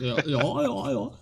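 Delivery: a hint of a nasal friend voice; nasal imitation of friend. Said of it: "Kinda accurate, though".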